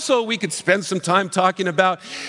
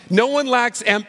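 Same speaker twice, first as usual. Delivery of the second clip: "No one lacks am-" scoffed higher and cut off; mocking parent echo; 4 semitones higher than usual. Pastor voicing a parent mocking his claim, higher and scoffing. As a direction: sneer back "No one lacks am-" as a doubting parent, pitch raised. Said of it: "I can hear the parents almost seething".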